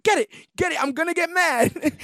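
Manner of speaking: hammed-up high-pitched rage; imitated anger. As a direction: act out someone working up to fury. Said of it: "the anger that he has".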